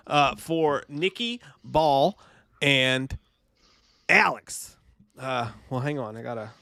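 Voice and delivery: a hint of a drunk coach rambling; Doctor Chalice character voice. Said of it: "Doctor Chalice just sounds like a dude".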